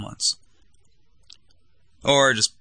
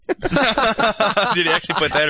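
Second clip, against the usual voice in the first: laughing; 9 semitones higher, slower than usual. Real, not acted. Laughing disbelief.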